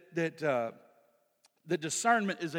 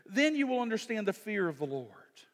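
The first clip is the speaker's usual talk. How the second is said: "then you will understand" read out strong and ringing; forceful reading; 5 semitones higher than usual. Acted. Preacher proclaiming the verse, strong. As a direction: proclaim it to the room.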